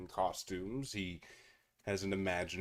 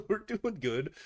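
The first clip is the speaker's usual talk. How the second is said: slow words through laughter; laughing, slower and higher; 10 semitones higher, slower than usual. Real, not acted. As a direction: chuckle while answering. Greeting chat while laughing.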